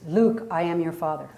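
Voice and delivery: a hint of a deep, dark movie villain; Darth Vader. Shown as a demonstration. Coach previews the line for the group, light Darth Vader voice. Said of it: "to your Darth Vader voice".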